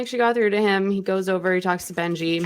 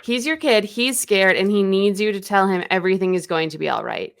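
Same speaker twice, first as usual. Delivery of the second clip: acted insistent plea. Acted daughter pleads for brother.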